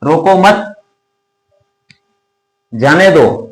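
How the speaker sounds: "रोको मत" in one go, long silence, then "जाने दो"; pause after मत. Shown as a demonstration. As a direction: hold a long gap before जाने. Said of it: "अगर ये यहां से हटा दें".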